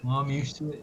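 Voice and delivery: Cockney London accent; lightly voiced London geezer. Shown as a demonstration. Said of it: "I'm gonna try and do my best London accent".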